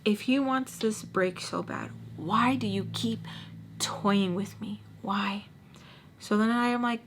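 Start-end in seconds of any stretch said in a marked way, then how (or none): 0.1-5.4 understated upset, words stretched out; retold upset. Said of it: "I get so upset".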